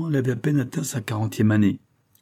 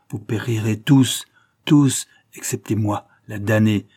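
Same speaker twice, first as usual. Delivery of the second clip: malédiction lente; 4 dB louder than usual. Acted. Sorcière maudit l'équipage.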